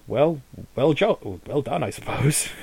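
mildly grumbling, halting approval; grudging grumble. Acted. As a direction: congratulate them reluctantly. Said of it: "He sort of grumbles".

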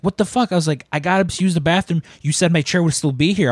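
high, indignant fake complaint; mock outrage. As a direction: play the wronged customer. Pretending his seat was taken.

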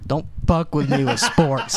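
slight Baltimore accent, laughing; tough-guy Baltimore twang slipping out. Real, not acted. Warning cohost off sports, light Baltimore accent. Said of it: "a Baltimore accent came out".

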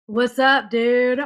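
put-on laid-back California surfer accent. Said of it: "I'm doing a surfer accent, too".

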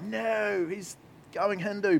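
high, startled protest, slowing on Hindu; playful alarm at a Hindu-sounding quote; mock alarmed listener. Preacher imitates listeners alarmed by a rock singer's quote, mock startled. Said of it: "you're gonna be like".

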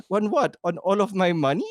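imitating an Italian actress's accent. Host mocking an actress's reply in an Italian accent. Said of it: "I don't know why she's Italian now".

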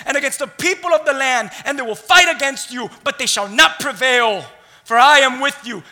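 emphatic, punchy preacher's reading; preached scripture reading. A narrator's reading. Preacher reads God's promise to the congregation, forceful preaching. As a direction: declaim it to the room, hitting key words hard.

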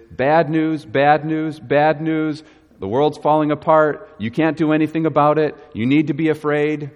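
a hint of an insistent doom-monger, pitch held up; lightly voiced alarmist. Preacher voicing the thief and robber to the congregation, mildly alarmist. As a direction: lightly imitate a voice repeating alarming news. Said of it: "The voice of the thief and the robber is".

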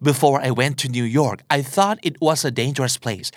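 very slow English sentence with just "thought"; slow model sentence without had; slow example without had. Shown as a demonstration. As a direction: read it word by word, dropping had. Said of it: "เขาก็อาจจะพูดว่า".

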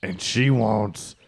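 low, slow threat; menacing rival. Acted. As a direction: lean into the menace. Plays rival Bean Bro.

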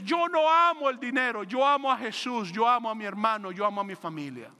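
mild proclaiming shout. Acted. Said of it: "María gritó a los cuatro vientos".

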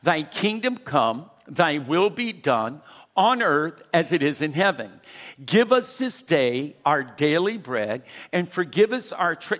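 steady, measured reciting of the Our Father; traditional recitation. Shown as a demonstration. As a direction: recite it the way the congregation always says it. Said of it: "But this is how we would say it".

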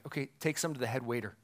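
low, soft, quick aside; hushed, hurried order; mock whisper. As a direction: imitate a discreet instruction under the breath. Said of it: "I picture him kinda whispering".

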